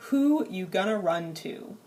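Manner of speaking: "Who you gonna run to?" tossed off casually, everyday speech; casual vernacular. Shown as a demonstration. Teacher contrasting the informal translation for students, casual. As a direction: say it like you'd really say it. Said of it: "The vernacular English translation".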